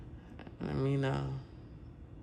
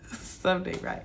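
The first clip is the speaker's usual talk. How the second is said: laughing whisper. Real, not acted.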